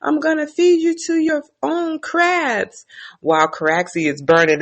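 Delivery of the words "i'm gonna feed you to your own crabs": mock challenge. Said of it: "And Daemon's like".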